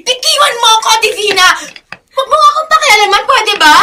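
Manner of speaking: loud, fast angry snap; furious, struggling; angry retort. Acted. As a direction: push her away with words. Struggling against friend, angry.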